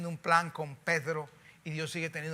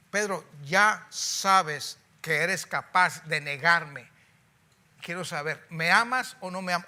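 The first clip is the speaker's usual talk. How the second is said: slow, louder searching question; pleading Jesus; 6 dB louder, slower than usual. Acted. Jesus pressing Peter, slow and louder. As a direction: press him slowly for an answer.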